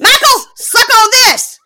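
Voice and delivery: high, loud hammed-up seductress; overdone flirty shout; mock sultry call. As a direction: send up her sexy video voice. Mocking her sexy video.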